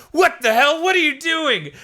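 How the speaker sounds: high, loud indignant yelp; mock outraged shock. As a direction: play a god who is stunned. Beers shocked at headbutts.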